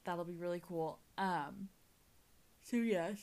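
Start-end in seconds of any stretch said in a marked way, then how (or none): 2.6-3.2 words stretched by a yawn. Real, not acted. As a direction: talk through a real yawn. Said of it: "Oh my gosh, I'm yawning again".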